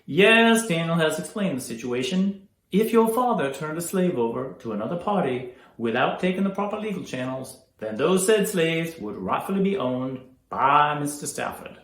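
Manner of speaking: loud, declaimed legal ruling; formal, authoritative. Acted. Lawyer explaining legal ownership of slaves, authoritative. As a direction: project it firmly to the room.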